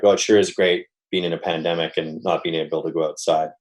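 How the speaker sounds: lightly sarcastic, dry irony; mock enthusiasm, hinting you mean the opposite. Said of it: "I could say something sarcastic like".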